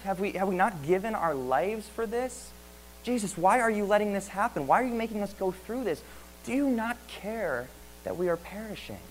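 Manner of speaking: frightened disciples crying out to a sleeping Jesus in the storm; desperate plea. Acted. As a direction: beg Jesus as disciples sure they'll drown. Preacher voices panicked disciples.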